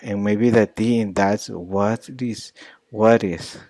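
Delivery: "what is" con T suave tipo flap. Shown as a demonstration. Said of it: "the T in important".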